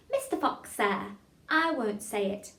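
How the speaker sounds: slow, careful diction; tongue-twister demo. Shown as a demonstration. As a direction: say it slowly for a class to copy. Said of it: "Again, a bit faster".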